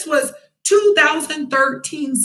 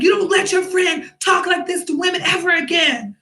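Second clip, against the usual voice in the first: stern warning; 5 semitones higher than usual. Retold or imitated. Warning the friends angrily.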